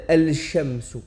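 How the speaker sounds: al-shamsu avec le lam prononcé, la forme fautive; al-shamsu fautif. Shown as a demonstration. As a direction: faire entendre le lam dans al-shamsu. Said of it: "on ne dira pas". (prononciation fautive de al-shamsu)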